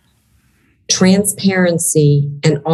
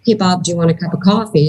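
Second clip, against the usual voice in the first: neutral friendly; faster than usual. Shown as a demonstration. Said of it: "It's the same tone".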